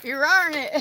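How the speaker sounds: Southern-accented speech. Saying a line on request to show pronunciation: Southern Alabama-Georgia accent. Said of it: "Say it".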